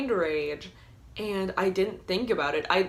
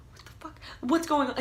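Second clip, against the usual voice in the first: higher, flustered; panicked robber; 8 semitones higher, faster than usual. Retold or imitated. Robber panicking at the girl, flustered higher. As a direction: sound thrown off and confused. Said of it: "He's like".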